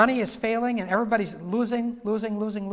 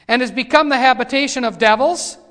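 loud, raised scripture proclamation; forceful scripture reading; 5 semitones higher, 11 dB louder than usual. Real, not acted. Preacher reading of the habitation of devils, in forceful proclamation. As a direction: proclaim the verse loudly, pitched up.

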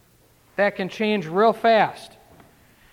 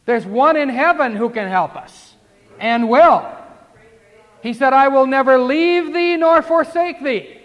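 higher, louder fiery pulpit delivery; rising preacher's cadence, driving each clause home; preaching at full force; 5 semitones higher, 6 dB louder, slower than usual. Acted. Preacher urging the congregation to repent, fiery and loud.

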